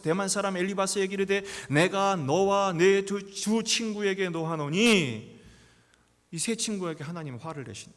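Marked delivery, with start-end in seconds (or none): 1.7-5.3 slow, louder solemn divine speech; solemn God voice. Acted. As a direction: pronounce God's anger with weight. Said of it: "여호와께서 … 이르되".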